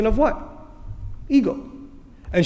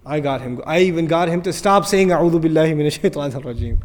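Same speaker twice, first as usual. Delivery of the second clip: a touch of a smug devil savoring his win; mild mock gloat from shaitan; 3 semitones lower, faster than usual. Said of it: "shaitan is sitting there laughing".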